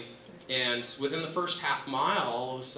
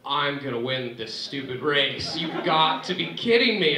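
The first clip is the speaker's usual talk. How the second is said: rising disbelief; 2 semitones higher, 7 dB louder than usual. Retold or imitated. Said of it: "two hundred meters to go".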